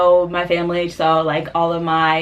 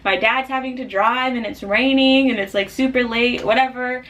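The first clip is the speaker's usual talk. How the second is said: higher-pitched, mildly upset complaint; mock-upset griping, pitched up; retold upset; 5 semitones higher than usual. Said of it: "I was really upset".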